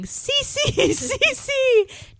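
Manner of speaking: high calling out across a parking lot; yelling a name. Retold or imitated. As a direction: shout her name, high and loud.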